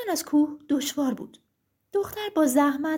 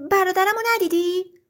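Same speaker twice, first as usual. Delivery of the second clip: raised, loud, anxious question; fearful question; 4 semitones higher, 5 dB louder than usual. Acted. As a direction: ask the giant nervously after a missing brother. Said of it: "و ترسان پرسید". (با نگرانی و ترس)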